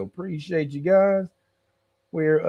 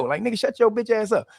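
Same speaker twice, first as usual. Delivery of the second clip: laughing; 7 semitones higher, faster than usual. Real, not acted. Mock telling crying hero off.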